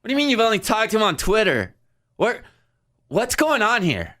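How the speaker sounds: high baffled what; imitating shocked fan. Girl confused about Twitter, high shocked. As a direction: sound floored. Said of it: "And she goes".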